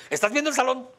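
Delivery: quick, loud, high question; wrong fast echo. Shown as a demonstration. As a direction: fire "¿Estás viendo el salón?" fast and loud as a question. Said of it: "No lo hizo con esa velocidad".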